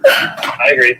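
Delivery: holding back his own tears; tearful. Real, not acted. Agreeing with the grieving widow, tearful.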